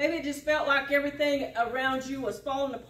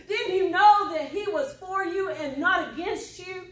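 voice of God building to laughter; 4 dB louder than usual. Acted. Voicing God's loving rebuke.

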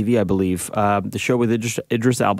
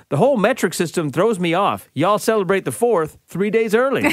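higher-pitched imitated Texan accent; Dallas accent; 8 semitones higher than usual. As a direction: do your Texan cousin from Dallas. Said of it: "I'm gonna do this in her accent 'cause she's from Dallas".

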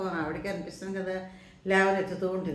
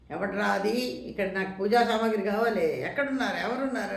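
retold demanding call, pitched higher; mock yell of an important customer, only a little louder; imperious yelling; 4 semitones higher, 3 dB louder than usual. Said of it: "గంభీరంగా పెద్దగా అరుస్తూను". (గంభీరంగా అరుస్తున్నట్టు అనుకరణ)

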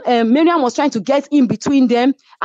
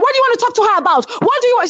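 high, fast mimicked challenge; pitched-up rapid mock demand; Chioma; 13 semitones higher, much faster than usual. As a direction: imitate a friend jumping in to confront someone. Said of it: "Chioma was like".

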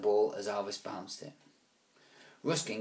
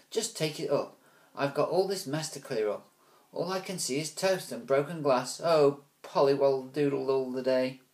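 higher, louder harried mum; exasperated mother; 4 semitones higher, 4 dB louder than usual. Acted. Wendy complaining to Ruskin about the mess. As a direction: sigh it out while busy. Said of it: "Wendy complained".

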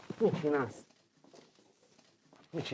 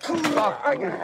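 exasperated yell; 6 semitones higher, 3 dB louder, slower than usual. Real, not acted. Part won't come loose, both yelling.

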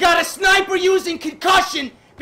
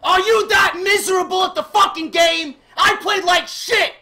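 louder, angry rant shout; raging gamer; 5 semitones higher, 3 dB louder than usual. Real, not acted. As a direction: yell in disgust at the game. Raging at the game.

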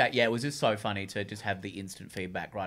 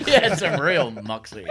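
laughing; 2 semitones higher, 6 dB louder than usual. Pretend. Laughing character bit.

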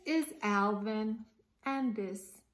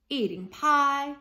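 loud, higher sly gator question; menacing grin; 4 semitones higher, 9 dB louder than usual. Acted. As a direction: tease them with a sharp-toothed grin. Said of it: "with a terrible grin".

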